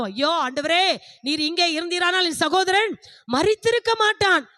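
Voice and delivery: retold plea climbing in pitch; Martha's lament. Grieving sister appeals to the Lord about her brother, lamenting. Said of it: "மார்த்தாளும்".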